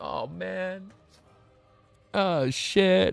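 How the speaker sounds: very slow, tearful, weeping words. Reacting to a sad scene while reading a story aloud: crying while talking. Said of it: "I'm crying, dude".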